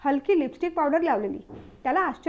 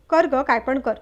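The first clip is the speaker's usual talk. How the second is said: exasperated, pushed-louder brush-off; annoyed; 5 dB louder than usual. Acted. Fed-up husband brushing off his wife's menu questions, irritated. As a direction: snap it out like he's fed up. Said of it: "वैतागत वैभव म्हणाला".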